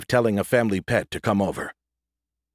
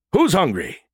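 shouting; 9 semitones higher, 3 dB louder than usual. A narrator's reading. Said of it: "the android shouted".

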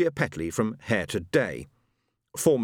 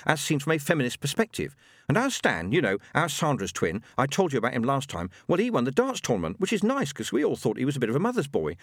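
higher, rattling family news; chatty widow gossiping; 5 semitones higher than usual. Acted. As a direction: babble on to the late husband. Beryl chatting to dead husband.

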